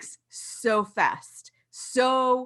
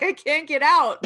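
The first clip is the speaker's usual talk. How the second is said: mock cry of being trapped, higher and louder; mock panic; 6 semitones higher, 6 dB louder than usual. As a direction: cry out in comic desperation. Acts out being stuck in accent.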